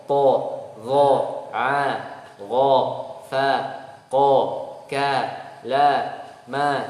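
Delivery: each syllable called out loud and separate; letter drill. Shown as a demonstration. Teacher drills Arabic letter sounds with the students. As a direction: model the syllables one by one, loud. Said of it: "teacher drills letter sounds".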